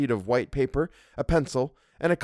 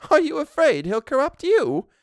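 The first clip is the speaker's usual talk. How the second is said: much higher, louder teasing housekeeper; bold humor; 5 dB louder than usual. A narrator's reading. Housekeeper teases the governess, boldly humorous. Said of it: "with such a fine, bold humor".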